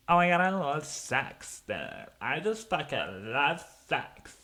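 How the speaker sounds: high, dreamy mock party girl voice; mocking coke fiend. Mocking a coke fiend at the party, high gushing voice. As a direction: ham up a gushing partier. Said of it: "Some fucking".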